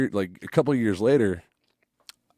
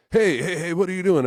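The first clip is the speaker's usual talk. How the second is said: stern challenge; 9 semitones higher, 4 dB louder than usual. Retold or imitated. Security guy confronting kids.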